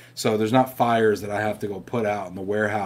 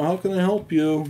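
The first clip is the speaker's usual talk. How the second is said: mock phone-agent greeting, pitched higher; call center agent; 8 semitones higher, 4 dB louder than usual. Young call center agent greeting a caller, lightly voiced. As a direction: play the cheery headset agent. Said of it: "I'm like, you know".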